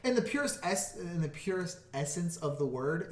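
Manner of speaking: hissing S's through clenched teeth; through gritted teeth. Real, not acted. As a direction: lean on every S through your teeth. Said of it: "I can hear it from this side".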